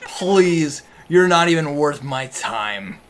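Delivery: loud, sneering brute voice; scornful villain. Acted. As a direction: dismiss them with contempt. Villain NPC scoffs loudly.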